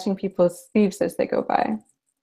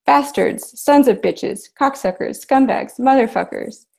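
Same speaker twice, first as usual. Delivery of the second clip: raised, higher-pitched string of curses; angry shouted swearing; shouting curses; 5 semitones higher than usual. Acted. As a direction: hurl the insults at them. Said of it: "starts shouting".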